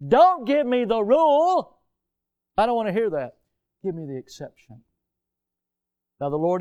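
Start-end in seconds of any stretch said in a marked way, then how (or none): 0.1-4.8 mock hard heart. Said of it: "the hardness of the heart".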